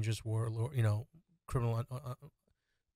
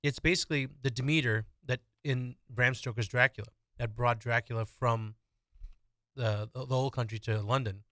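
talking while crunching a cough drop; crunching candy. Real, not acted. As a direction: speak around hard candy. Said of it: "I'm crunching a Halls right now".

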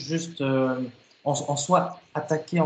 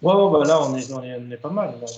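while running; 4 dB louder than usual. Real, not acted. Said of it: "je suis en train de courir".

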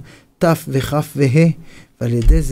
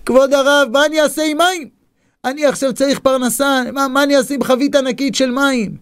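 much higher, whiny sobbing plea; crying again; 10 semitones higher than usual. Acted. Man cries to the rebbe about a barrel of water, high pitched. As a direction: beg desperately, near tears. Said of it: "עוד פעם בוכה".

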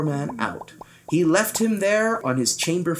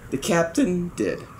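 plain reading voice

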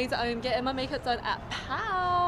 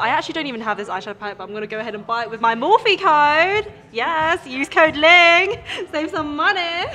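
promo hype; 2 semitones higher, 10 dB louder than usual. Real, not acted. Plugging her discount code.

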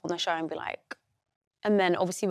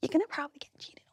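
whispered; 7 semitones higher, 4 dB quieter, faster than usual. Real, not acted. Confiding warning.

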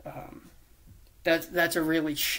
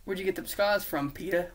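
lightly voiced mock British geezer; put-on British accent; 3 semitones higher than usual. Osborn asking Peter about his scars, mock British accent. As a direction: slip into a casual fake British accent. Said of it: "doing accents to change it".

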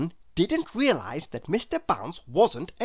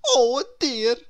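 sorry for himself; 6 semitones higher, 6 dB louder than usual. Acted. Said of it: "feeling very sorry for himself".

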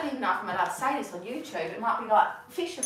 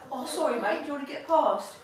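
cheeky London geezer; matey bloke voice; proper geezer. Retold or imitated. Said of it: "trying to be a proper geezer".

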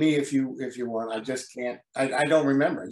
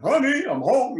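much higher, louder cheery call; sitcom dad catchphrase; 11 semitones higher, 6 dB louder, slower than usual. Retold or imitated. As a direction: sing out the homecoming line like a TV dad. Quoting the character's catchphrase.

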